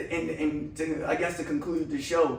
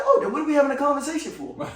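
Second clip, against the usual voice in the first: laughing; 9 semitones higher, 3 dB louder, faster than usual. Retold or imitated. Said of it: "I said".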